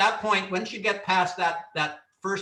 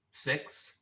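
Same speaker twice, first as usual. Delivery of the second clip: silent count; 2 semitones lower, 9 dB quieter than usual. Shown as a demonstration. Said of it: "So at that point".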